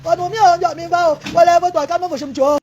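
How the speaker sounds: long, drawn-out keening; wailing lament. Real, not acted. Woman begging relatives to calm her brother, wailing.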